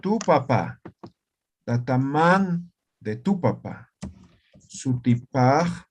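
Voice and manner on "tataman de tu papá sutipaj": slow dictation. Shown as a demonstration. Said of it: "aquí voy a escribir".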